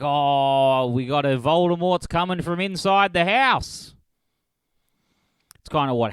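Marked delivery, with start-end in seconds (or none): 0.0-3.9 mock alarm. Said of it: "they were like".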